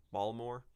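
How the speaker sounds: "Baltimore" with the L and T swallowed, like "Balmore"; light Baltimore accent, "Baltimore" squeezed to two syllables; Baltimore pronunciation. Shown as a demonstration. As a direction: say "Baltimore" dropping the L and T sounds. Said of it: "swallow the L T".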